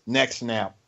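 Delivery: mock threat, action star. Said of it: "You get past more than five words".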